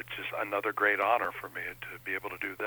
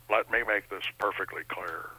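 lightly voiced old Nixon; Richard Nixon impression. Comedian recalls the old Nixon for the interviewer, light Nixon impression. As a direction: slip lightly into a presidential catchphrase voice. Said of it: "hearkening back to the old Nixon".

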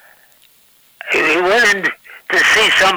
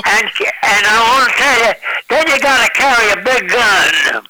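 southern pitchman; 3 semitones higher than usual. Retold or imitated. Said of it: "in my southern accent".

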